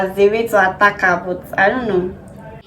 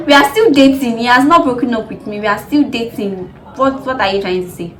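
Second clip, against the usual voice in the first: indignant; 2 semitones higher, 6 dB louder than usual. Retold or imitated. Indignant retort.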